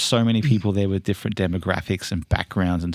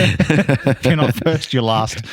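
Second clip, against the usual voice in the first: loud, slow, high movie-quote voice; Ricky Bobby; 6 semitones higher, 6 dB louder, much slower than usual. Retold or imitated. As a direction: belt out the famous movie line. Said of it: "Ricky Bobby".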